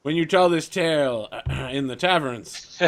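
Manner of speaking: pompous braggart, throat clearing; boastful NPC. Acted. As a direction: brag grandly to save face. NPC Rufus boasting to party.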